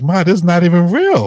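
high, loud, laughing disbelief; laughing protest. Retold or imitated. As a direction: laugh it off as silly. Daughter laughing off the parents.

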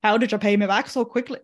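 bad Scottish accent that drifts toward Irish; shaky Scottish accent attempt, landing on Irish. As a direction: have a poor go at a Scottish accent. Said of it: "That's not a Scottish accent".

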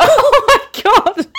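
slow, high, laughing oh my God. Real, not acted. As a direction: crack up at yourself. Laughing at her own mistake.

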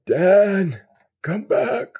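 high, drawn-out call after someone who just left; mock calling after. Joking plea calling a departed listener back, pitched high. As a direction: playfully beg him to come back.

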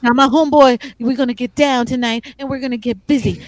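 mock rap-battle swagger with punched phrases; hammed-up homeboy patter; imitating rapper-style talker. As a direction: lightly mimic a guy who talks in rap. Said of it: "like he's rapping".

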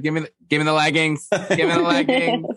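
high-pitched imitated eager demand; hammed-up urgent pleading; Melissa. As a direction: act out a greedy grab, pitch climbing. Acting out Melissa grabbing leggings.

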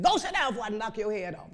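stern mother. Retold or imitated. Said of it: "the black parents talk to you like that".

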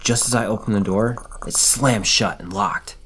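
dramatic first-person horror story reading; read-aloud campfire horror tale; story narration. A narrator's reading. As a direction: tell a scary story, stressing key moments.

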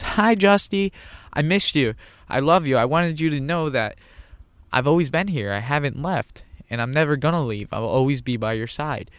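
a hint of a loving grandma speaking from beyond; gentle imitation of his late grandmother; grandma's voice. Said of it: "In her voice".

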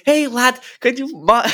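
high-pitched, badly faked Scouse; hammed-up bad Scouse bloke; terrible Scouse accent. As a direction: attempt a Liverpool accent and miss. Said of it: "Scouse accent".

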